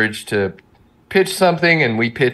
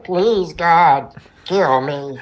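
mock despair; 6 semitones higher, much slower than usual. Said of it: "He was always saying things like".

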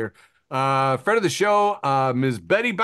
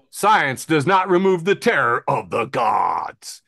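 slow, louder reading of the caption as if in capitals; all caps shout; 4 dB louder, slower than usual. Retold or imitated. Reading an all-caps meme caption, booming. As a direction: boom out the caption like a proclamation.

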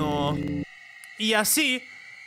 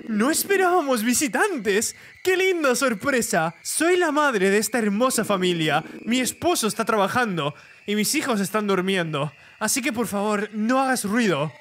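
creepy mother; 4 semitones higher than usual. Acted.

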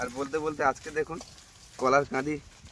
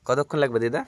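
raised voice for grandma; to someone hard of hearing; 6 dB louder than usual. Real, not acted. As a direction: call out clearly and loudly. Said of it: "আমার দিদা কিন্তু কানে একটু বেশি শোনে".

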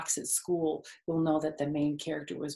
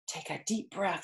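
softer, smiling instruction; 6 dB quieter than usual. Acted. Charlotte coaching Wilbur, softer and smiling. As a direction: gently coach the pig to breathe.

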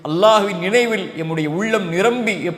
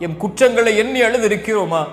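preach. Acted. Rhetorical questions to the congregation.

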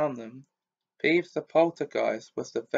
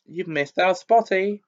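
high, nasty taunting imp; hissed taunt; 6 semitones higher, 5 dB louder than usual. A narrator's reading. Peeves taunting Myrtle in her ear. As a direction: needle her cruelly. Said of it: "Peeves hissed in her ear".

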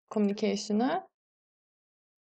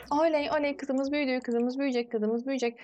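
higher-pitched little victory cheer; celebrating; 3 semitones higher than usual. Real, not acted. Cheers her character growing up.

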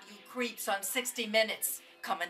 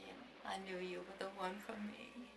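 tender; 2 semitones lower, 4 dB quieter than usual. Acted. Grandma reminiscing tenderly.

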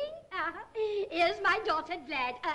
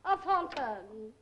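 slow emphatic repeat; 3 semitones lower, slower than usual. Acted. Hostess repeating the dress label slowly to puzzled guest. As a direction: spell out A Thornton slowly, each word weighted. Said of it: "A what?".

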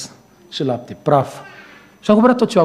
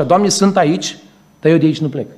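mock prayer; 2 semitones higher than usual. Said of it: "interpretează cam așa".

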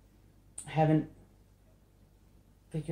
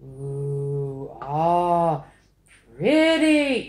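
admiring sounds; 8 dB louder, much slower than usual. Acted. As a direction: coo over your own art. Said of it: "sitting here making sounds".

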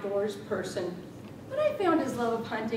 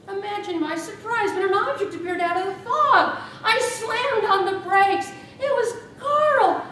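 higher, louder, laughing through the story; gleeful laughing telling; 9 semitones higher, 10 dB louder than usual. Acted. Widow gleefully recounting running over her cyclist husband, laughing. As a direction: barely hold back glee as it builds.

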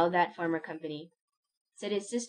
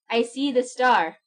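loud, high and slow exclamation; an old man's joyful cry of recognition; dying man crying out, loud, high and slow; 6 semitones higher, 8 dB louder than usual. A narrator's reading. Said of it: "he cried, as he had cried so long ago".

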